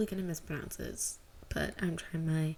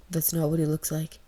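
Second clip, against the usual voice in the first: righteous indignation; 2 semitones lower, 6 dB louder than usual. Acted. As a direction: object with sudden righteous heat. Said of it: "with a sudden flash of righteous indignation".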